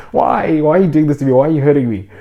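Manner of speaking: put-on high, loud wailing toddler pleading; crying toddler. Voicing a toddler who lost his ice cream, high wailing plea. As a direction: whine it up high like a hurt little kid. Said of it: "look up to the parent and cry and be like".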